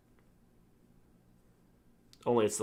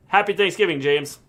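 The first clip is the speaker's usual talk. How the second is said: ordinary talk, nothing marked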